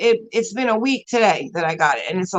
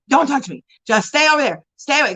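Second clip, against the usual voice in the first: retold snapping; 3 semitones higher than usual. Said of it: "I was so evil to him".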